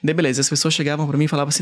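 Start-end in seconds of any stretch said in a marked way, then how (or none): none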